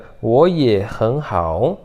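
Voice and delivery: 我也很好 slowly, in two pairs; tone change demo. Shown as a demonstration. Teacher models the final phrase, 我也很好 slow and paired. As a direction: draw out 我 and 很 with rising tone.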